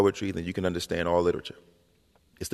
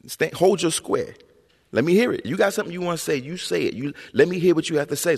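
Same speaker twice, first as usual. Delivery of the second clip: higher, louder imitated mom, insisting; mother demanding he speak up; 10 semitones higher, 4 dB louder than usual. Mother pushing her mumbling son to speak up, imitated insistence. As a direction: hold your ground, says mom, pushing hard. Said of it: "And she'd be like".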